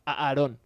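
"a Aarón" with the first A repeated, mimicking a stutter; mock stutter. Teasing Joan about a stutterer's name, mock stutter. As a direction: lightly imitate stumbling on the A of "Aarón". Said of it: "es como si eres tartamudo".

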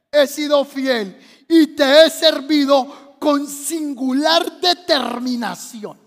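slow, drawn-out pleading prayer; tearful plea. Acted. Preacher as Ezequías reminding God of faithful service, tearful plea. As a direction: plead earnestly, tailing down at the end. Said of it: "empezó a llorar y le dijo".

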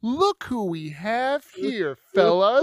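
slow, smug taunt; slow mocking sneer to the fellas; gloating. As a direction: savour catching him. Gloating villain greeting.

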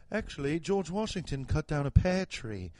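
lightly put-on British accent; confident British know-it-all. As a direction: state nonsense with British assurance. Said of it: "anytime you hear a British person talk".

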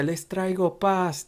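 Señor Burns. Retold or imitated. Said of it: "tipo como el señor Burns".

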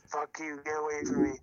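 high-pitched upset imitation; retold mad partner. Caller mimics partner rebuffing his tickling, mock angry. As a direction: mimic an angry rebuff without much volume. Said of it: "She's so mad".

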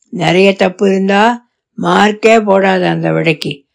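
steady and firm, a father setting the rules. Acted. Father tells daughter to grade her own paper, low and firm.

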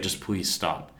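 retold weary plea. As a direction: quietly beg a heckler to stop, secondhand.

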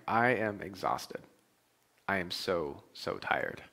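soft, slow, fading to a breathless whisper; mock exhausted. Husband moaning to his wife, drained, fading whisper. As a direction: sag into it like you can barely stand. Retelling sleepy reply to wife.

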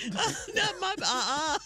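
mock defensive parent.

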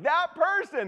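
high, loud gossipy voice; mock gossip. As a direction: start the gossip with relish. Acting out gossip.

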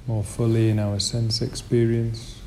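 unhurried meditation lead with long pauses; slow, settled guiding voice, leaving space between phrases; guided meditation. Real, not acted. Teacher leading the group into meditation posture, guided meditation.

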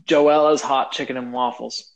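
spelled out slowly; slow and deliberate. Real, not acted. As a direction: say the name slowly and clearly. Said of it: "names restaurant slowly, deliberately".

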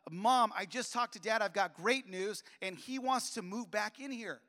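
retold excited pitch of great news. Son bringing mom great news about dad, excited. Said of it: "I was so excited".

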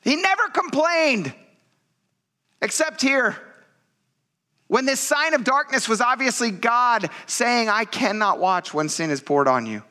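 high, impassioned preaching; preaching at full force. Acted. Pastor urging congregation about Jesus' suffering, impassioned preaching. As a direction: pour it out to the church.

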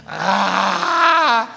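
loud mock wail of a crying man; Chewbacca-like crying. Preacher mocking how ugly men cry, loud Chewbacca wail. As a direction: bawl like Chewbacca, hammed-up. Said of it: "homem chorando parece o Chewbacca".

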